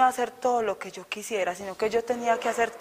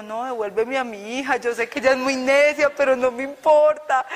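mock tearful plea; 3 semitones higher, 4 dB louder than usual. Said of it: "la mamá empezó a llorar y dijo".

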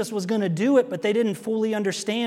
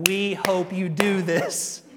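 mock encouragement; much slower than usual. Mocking parents encouraging vice.

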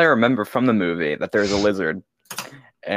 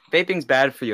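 mock ad voice; 4 semitones higher than usual. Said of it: "one of them was like".

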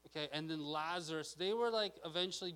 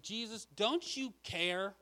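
acted exasperated complaint, stretched and higher; irritated outburst; 4 semitones higher, 5 dB louder than usual. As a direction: go off on him like an overworked cook. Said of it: "She finally gets irritated enough".

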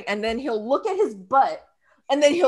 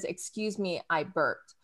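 mock polite husband; 9 semitones lower, 12 dB quieter than usual. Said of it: "he always says".

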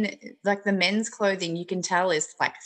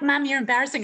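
mock whiny daughter; 6 semitones higher than usual. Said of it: "She'll be like".

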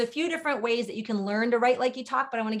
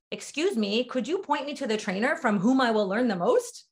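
stilted, painstakingly polite question; overly formal request; 2 semitones higher than usual. Acted. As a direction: ask it stiffly, carefully enunciated, as nobody really talks. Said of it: "you wouldn't walk into a classroom and say".

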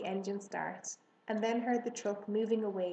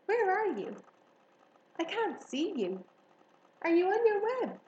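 much higher and louder, worried calling; worried piglet calling out; anxious young pig; 10 semitones higher, 4 dB louder than usual. Acted. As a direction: call into the dark for a friend you can't see. Pig searching for his friend.

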